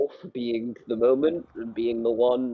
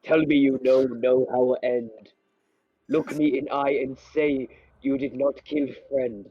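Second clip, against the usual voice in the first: caveman voice. Acted. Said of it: "two cavemen talking about mutiny".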